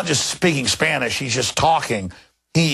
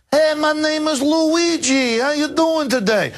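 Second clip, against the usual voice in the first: high, drawn-out mock Italian New York accent; hammed-up Italian-American New Yorker; Luigi; 12 semitones higher, slower than usual. Poser visiting New York City, fake Italian New York accent. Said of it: "if I went to New York City and was like".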